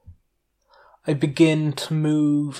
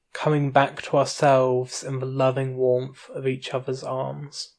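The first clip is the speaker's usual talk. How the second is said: story narration. A narrator's reading. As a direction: narrate evenly and unhurried.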